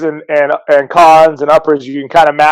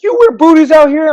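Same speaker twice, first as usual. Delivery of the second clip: much higher, incredulous mock voice; mocking surprised question; 13 semitones higher than usual. Pro surfer baffled by booties, in a mocking high voice. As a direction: pitch it up like a baffled guy.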